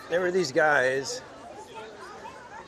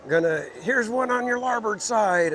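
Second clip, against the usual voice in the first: pirate voice; 7 semitones higher, 3 dB louder than usual. Retold or imitated. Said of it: "joking around as pirates".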